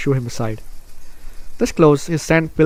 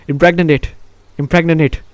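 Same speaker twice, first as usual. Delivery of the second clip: amused repeating; 3 semitones higher, 5 dB louder than usual. Real, not acted. Mocks own mispronounced word, laughs.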